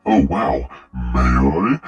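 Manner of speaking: hint of a cartoon schemer, swooping pitch; lightly mock a Looney Tunes character. Commentator mocking a creepy text reply, lightly cartoonish. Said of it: "talking like a fucking Looney Tunes character".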